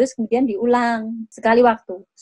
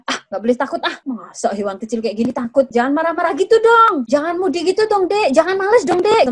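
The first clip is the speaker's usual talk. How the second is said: scolding, rising higher toward the end; disapproving; 5 semitones higher than usual. Shown as a demonstration. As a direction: nag the child, building up. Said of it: "disapproving atau tidak setuju". (menegur dengan nada tidak setuju)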